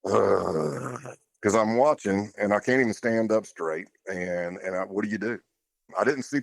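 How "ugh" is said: heavy tense sigh out; audible sigh. Retold or imitated. Reliving a wire search, an audible sigh. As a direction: let out a sigh of dread. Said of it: "you hear this audible sigh".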